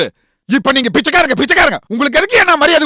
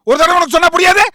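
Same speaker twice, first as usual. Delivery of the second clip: angry repeat; 3 semitones higher than usual. Acted. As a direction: snap the line again in anger. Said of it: "repeated louder".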